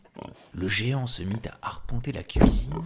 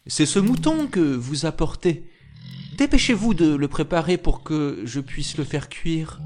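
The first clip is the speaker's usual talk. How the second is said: quick, higher, louder reply; brisk wife; 5 semitones higher, 4 dB louder than usual. Acted. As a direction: cut in briskly to cover. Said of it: "dit la femme vivement". (épouse vive, plus aiguë)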